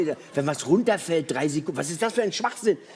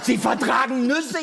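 stunned barista; 5 semitones higher, slower than usual. Retold or imitated. Barista astonished again.

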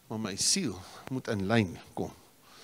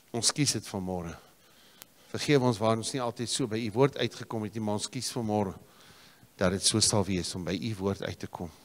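prayerful pastor's voice, pleading then settling; closing prayer from the pulpit; earnest prayer. Acted. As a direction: pray over the congregation. Closing prayer over the congregation.

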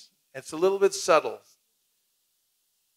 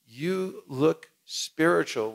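slow mock compliment; much slower than usual. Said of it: "you say".

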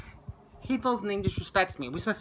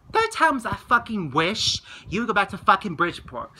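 heated, louder reenacted rebuke; retold angry outburst; 3 semitones higher, 5 dB louder than usual. Telling a friend to go back to Bridgeport, retold anger. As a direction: retell snapping at a friend. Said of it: "so he's pissed at me".

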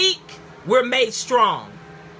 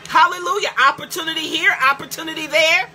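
upbeat, rising praise; rejoicing over every blessing; excited blessing talk; 3 semitones higher than usual. Shown as a demonstration. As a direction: show them how to talk blessed. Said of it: "That's how you need to talk".

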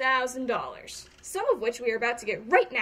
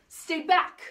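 warning shout; 5 semitones higher, 4 dB louder than usual. Acted. Warning the girl.

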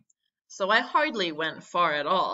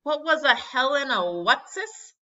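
high-pitched, bewildered question; baffled; 7 semitones higher, 4 dB louder than usual. A narrator's reading. Boy puzzling over Latin name, high and bewildered. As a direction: stumble over the strange name in alarm.

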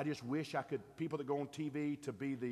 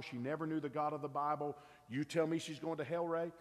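challenging questioner; 3 semitones higher, 4 dB louder than usual. Retold or imitated. Imagined challenger questions Ray.

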